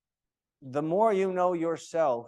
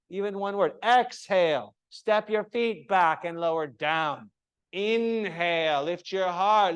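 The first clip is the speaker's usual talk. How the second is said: varied tone; 3 semitones higher, 4 dB louder than usual. Shown as a demonstration. Teacher demonstrating lively varied tone for yoga cues. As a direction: pitch swooping higher and louder on cues. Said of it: "that's why I'm saying variety".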